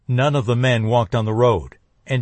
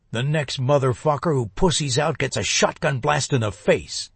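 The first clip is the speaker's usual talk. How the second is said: hissed; 3 semitones higher than usual. A narrator's reading. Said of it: "he hissed for the others".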